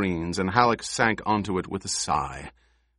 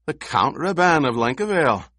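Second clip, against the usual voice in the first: shocked rage; 7 semitones higher, 5 dB louder than usual. A narrator's reading. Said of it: "the upsurge of rage".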